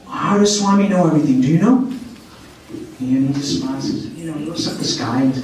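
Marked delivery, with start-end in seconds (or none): 0.1-1.8 retold insistent demand, pitched up at the end; insistent questioning. Devotee pestering the silent young man, insistent. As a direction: press for an answer, higher and quicker.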